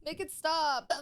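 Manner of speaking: slow, talking through hiccups; words broken by hiccups; hiccuping. Real, not acted. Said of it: "I keep hiccuping".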